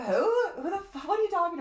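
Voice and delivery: high, laughing Who the fuck; laughing disbelief. Retold or imitated. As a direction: retell your confused reaction while laughing. Baffled reply to friend's name.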